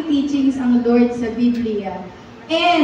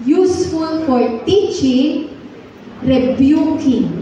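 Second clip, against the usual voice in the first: each word slowly drawn out; slow memory verse chant; slow recitation; 2 semitones higher, slower than usual. Shown as a demonstration. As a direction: recite it slowly so they can follow. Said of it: "sabay-sabay po tayong mag-memorize".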